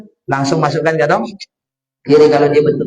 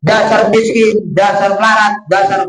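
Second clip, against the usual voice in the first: imitated insult; 2 semitones higher than usual. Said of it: "Dia bentak-bentaknya".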